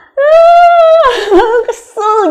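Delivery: high, loud, breaking cry of exasperation; mother's frustrated cry. Retold or imitated. Mother, upset at her scribbled-on child, wails in frustration. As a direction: wail it out like a fed-up mother at the end of her rope.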